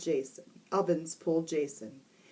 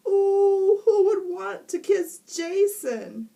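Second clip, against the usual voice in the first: high, loud, slow mocking laugh; teasing laugh; 14 semitones higher, 9 dB louder, slower than usual. A narrator's reading. Girl teasing classmate, mocking laughter. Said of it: "said Allison".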